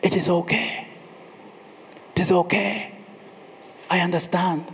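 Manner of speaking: soft, unhurried comforting voice; gentle reassurance. Acted. God standing by the self-pitying man, softly reassuring him. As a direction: soothe gently, leaving room between phrases. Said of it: "God needed to whisper gently".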